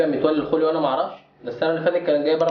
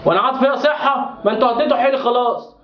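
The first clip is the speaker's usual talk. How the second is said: high, raised complaint; exasperated scolding; 7 semitones higher than usual. Acted. Father berating his son over the grade, exasperated. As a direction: scold him in high disbelief.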